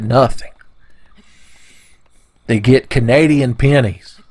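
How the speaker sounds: slow, hushed spooky whisper. Pretend. Tooth fairy threatening naughty bokoblins, slow whisper.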